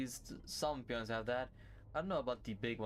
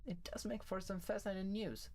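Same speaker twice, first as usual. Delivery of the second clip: Oriole; 5 dB quieter than usual. Acted. Plays Oriole, gossiping in story.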